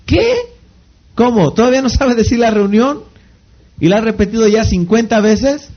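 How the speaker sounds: high, mock-shocked questioning; incredulous. Speaker playing someone shocked at a learner's repeated mistake, incredulous. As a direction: act taken aback, pitch leaping on the first word.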